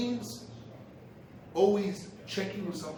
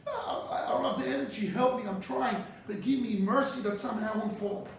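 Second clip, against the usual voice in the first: acted begging. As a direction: imitate someone begging God for mercy. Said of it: "you beg Hashem mercy".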